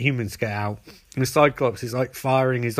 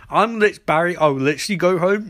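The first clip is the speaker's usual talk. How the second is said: raised, higher retold protest; mock exasperation; 4 semitones higher, 4 dB louder than usual. Villain protesting to Barry, mock exasperated. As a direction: push it out in mock frustration, pitched up. Villain pleading in acted argument.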